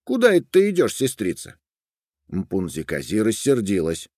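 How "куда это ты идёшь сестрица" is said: put-on much higher boy voice, friendly; a young herder greeting her; lightly voiced shepherd boy asking her way. A narrator's reading. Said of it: "Он подошёл к Мпунзи-Кази и сказал".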